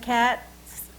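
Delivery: cats said alone, with the final ts drawn out clearly; sound demo. Shown as a demonstration. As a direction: show the ts sound at the end of cats. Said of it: "When you say the word cats, that's on the end".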